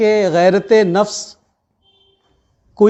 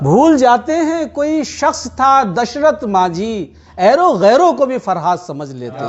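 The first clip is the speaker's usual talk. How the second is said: measured Urdu poetry recitation; tender romantic poetry; 3 semitones higher than usual. Acted. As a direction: recite each couplet with feeling. Poet reciting at mushaira.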